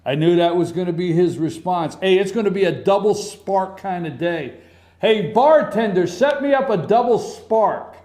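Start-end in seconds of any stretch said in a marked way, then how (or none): 5.0-8.0 raised, playful call to a bartender; mock bar order. Pretends calling out to bartender.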